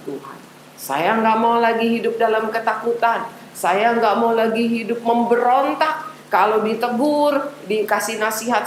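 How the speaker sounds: earnest prayer, phrase by phrase; leading a prayer. Acted. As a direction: lead the children through a prayer. Memimpin doa anak-anak. (doa yang dipimpin dengan sungguh-sungguh)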